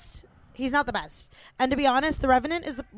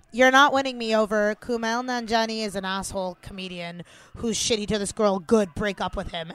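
retold indignant reaction; 6 dB louder than usual. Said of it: "I was like".

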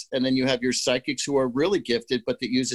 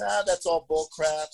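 scoffing skeptic. Retold or imitated. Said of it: "the other end of the table says".

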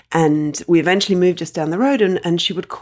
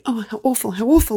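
mock pitying relatives; 5 semitones higher, faster than usual. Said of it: "everybody's standing around going".

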